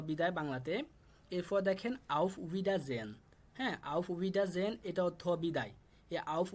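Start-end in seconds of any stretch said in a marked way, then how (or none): 2.2-3.1 auf Wiedersehen drawn out slowly, each syllable clear; teacher slowly modelling auf Wiedersehen; slow model pronunciation. Shown as a demonstration. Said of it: "শুধুমাত্র আমি উচ্চারণ করে দিচ্ছি". 3.9-4.7 auf Wiedersehen drawn out slowly, each syllable clear; teacher slowly modelling auf Wiedersehen; slow model pronunciation. Shown as a demonstration. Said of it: "শুধুমাত্র আমি উচ্চারণ করে দিচ্ছি".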